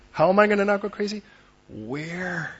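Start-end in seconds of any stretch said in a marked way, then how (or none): 0.1-1.2 desperate. Acted. Preacher voicing a frantic parent to the congregation, fast and pressed. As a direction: blurt it out, close to panic.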